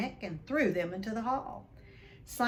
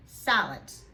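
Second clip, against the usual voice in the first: yell; 7 dB louder than usual. Acted. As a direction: yell it to shake the ceiling. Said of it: "yelled Uncle Vernon".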